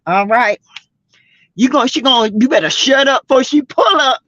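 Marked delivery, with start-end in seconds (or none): 1.6-4.2 fast, sing-song taunt; sassy singsong warning. Real, not acted. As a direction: chant it as a teasing threat. Repeat of warning, fast, sung-like.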